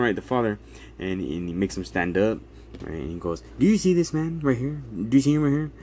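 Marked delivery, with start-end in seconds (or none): 3.6-5.7 pointed challenge. Retold or imitated. Attorney confronts caseworker.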